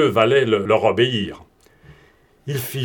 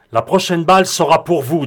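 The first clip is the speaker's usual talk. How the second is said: a cold threat, higher and louder; menacing voice; 5 semitones higher, 5 dB louder than usual. A narrator's reading. Broom threatens Morane after firing the shot, menacing. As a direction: promise the next bullet like a fact. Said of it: "avec la même voix menaçante".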